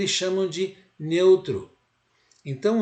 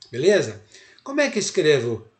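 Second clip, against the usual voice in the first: ordinary delivery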